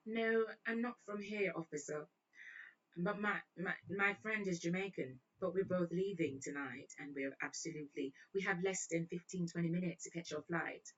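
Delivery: lightly put-on British voice; British accent. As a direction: explain politely in mock British. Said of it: "broke in a one British accent".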